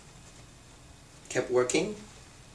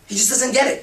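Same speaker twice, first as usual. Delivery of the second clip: raised, higher fed-up voice; exasperated complaint; 6 semitones higher than usual. Acted. Woman complaining her guy doesn't get it, exasperated and raised. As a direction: huff it out, completely fed up with him.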